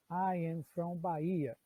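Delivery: slow, clear English example; slow model sentence. Shown as a demonstration. Teacher models the sentence for students, slowly. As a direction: say it slowly for learners. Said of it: "Eu usaria essa construção aqui".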